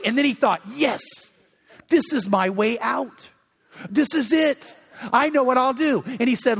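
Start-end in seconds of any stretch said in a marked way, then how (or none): 0.7-6.0 acted-out eureka moment; mildly triumphant retelling; retold excitement. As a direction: play a man who has just found his way out. Retells delight at finding a loophole.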